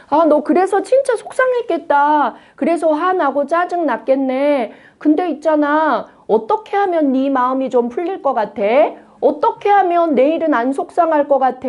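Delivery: gentle, sympathetic questioning; a mother consoling her upset child; comforting parent. Shown as a demonstration. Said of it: "애들한테 자꾸 물어보는 거예요".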